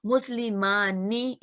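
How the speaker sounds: मुस्लिमानी drawn out very slowly with a clear नून; slow clear demo. Shown as a demonstration. Teacher shows students the नून sound, slow demo. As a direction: stretch मुस्लिमानी, rising at the end. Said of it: "इसमें भी एक नून sound आ रही है".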